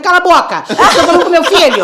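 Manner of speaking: snapping. Retold or imitated. Mother shouts at recruiter to shut up. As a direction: shut the girl up.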